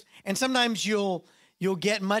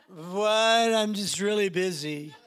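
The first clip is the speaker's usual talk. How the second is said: laughing brush-off; slower than usual. Pretend. Dismissive reply to God, laughing.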